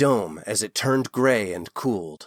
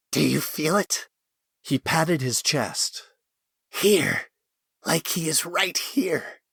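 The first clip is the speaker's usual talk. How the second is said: awed excitement; 5 semitones higher than usual. A narrator's reading.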